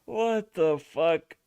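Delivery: slow drawn-out what the fuck; stunned disbelief. Real, not acted. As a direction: stretch every word in disbelief. Stunned reaction to clip.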